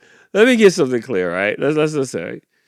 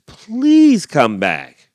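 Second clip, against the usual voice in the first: slow pleading bird; 5 semitones higher, 7 dB louder, much slower than usual. Acted. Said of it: "The bird says".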